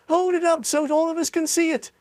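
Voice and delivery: high, eager call; crowd calling. A narrator's reading. A bystander calls to Charlie, high and eager. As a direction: demand to see it.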